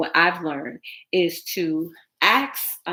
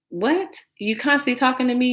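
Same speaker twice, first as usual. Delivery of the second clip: annoyed; 7 semitones higher, 3 dB louder than usual. Retold or imitated. Annoyed quoted reply.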